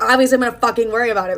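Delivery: fast, heated retort; mock jealous outburst. Ex-boyfriend demanding who sent the flowers, fast and irritated.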